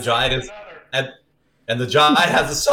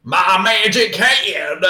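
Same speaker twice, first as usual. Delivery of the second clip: slow hammed giant line; 4 semitones higher, much slower than usual.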